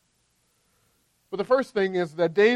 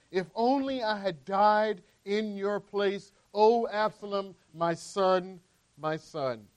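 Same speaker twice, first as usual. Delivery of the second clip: solemn scripture reading. Acted. Preacher reading scripture aloud.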